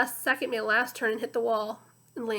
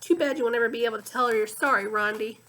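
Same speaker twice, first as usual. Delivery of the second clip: sick French donkey; 4 dB louder, faster than usual. Acted. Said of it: "sounding very much like a sick French donkey".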